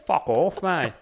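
friendly Australian accent. Real, not acted. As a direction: say it like a cheeky Australian. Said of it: "I love your accents".

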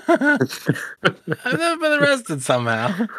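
high, drawn-out laughing echo; laughing mimicry. Teasing a friend about his clean record, laughing mimicry.

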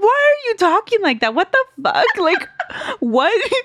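high-pitched, laughing mock freak-out; laughing disbelief. Reacting to a child's creepy voice, laughing disbelief. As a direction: squeal the questions through helpless laughter.

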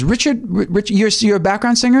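high, intense impression of a star; a famous singer. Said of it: "it's so intense already".

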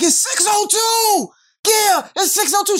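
high panicked cry; startled awake, realizing he's late; mock panic. The husband retells waking up late, high panic.

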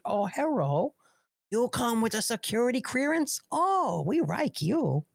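high-pitched mock East Asian accent. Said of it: "Asian accent comes".

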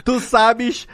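ordinary talk

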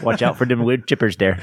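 mock Fargo Midwestern accent; hammed-up upper-Midwest Fargo joke. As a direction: warn them in folksy put-on Fargo. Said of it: "how do they talk in Fargo?".

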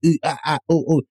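string of short mock moans; demonstrated moans. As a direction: run through assorted little moans, half-hearted. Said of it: "start going to the moans".

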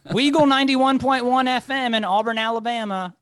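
high, projected radio announcer call-out; loud, high station-ID voice. Pretend. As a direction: announce the call sign like a college DJ. Recalls his college radio station ID.

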